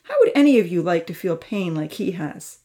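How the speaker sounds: stern, harsh telling-off; harsh scolding. Acted. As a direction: lay into them like a disappointed uncle. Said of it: "speak so harshly".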